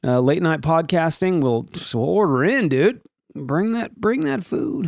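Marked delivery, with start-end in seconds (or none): 3.3-4.9 "bring that food" in a rising, higher put-on voice; a hammed-up demanding voice. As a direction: call for the food in a goofy voice. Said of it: "why I'm doing that voice".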